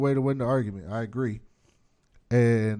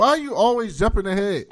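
laughing exasperation; 9 semitones higher, 7 dB louder than usual. Real, not acted. Annoyed friend keeps jumping ahead.

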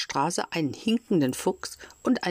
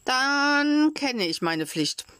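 proud heroic; 9 semitones higher, slower than usual. A narrator's reading. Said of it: "stolz ... wie ein Held".

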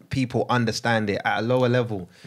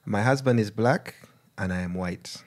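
put-on Ugandan accent; 2 semitones lower than usual. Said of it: "I'm gonna read it in Ugandan accent".

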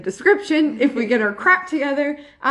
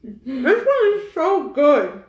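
laughing; 2 semitones higher, much slower than usual. Real, not acted. Laughing while eating.

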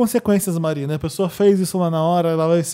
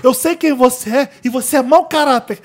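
imitating an angry boss at the intern, higher and a little louder; mock boss yelling; 5 semitones higher, 3 dB louder than usual. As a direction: play the furious boss demanding the money, laughing through it. (chefe bravo imitado, rindo)

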